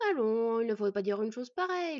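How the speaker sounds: loud, hearty encouragement; enthusiastic encouragement. Acted. Host cheering on departing guests, enthusiastically. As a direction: buck them up with enthusiasm. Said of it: "l'encouragea Nuri avec enthousiasme".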